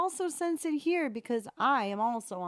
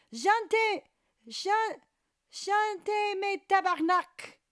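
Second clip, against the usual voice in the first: raised, high mock-swearing command; playful commanding call; 7 semitones higher, 3 dB louder than usual. Streamer trying a phrase learned from Julienne, playful call. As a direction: try out the cursing order with gusto.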